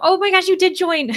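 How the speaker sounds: high, loud oh my gosh; delighted surprise. Real, not acted. Host delighted that a viewer joined the readathon, surprised. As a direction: squeal with happy surprise at the news.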